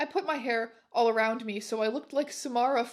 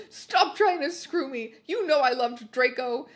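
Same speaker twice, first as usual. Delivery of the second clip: loud angry shout; 4 dB louder than usual. Acted. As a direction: yell it at him. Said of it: "I shouted".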